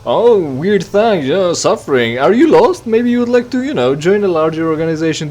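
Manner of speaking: high, loud, syrupy recruiter pitch; cult leader. Retold or imitated. Mocking the stranger as a cult leader, high and loud. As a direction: lure them in like a cult recruiter. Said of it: "he sounds like a fucking cult leader".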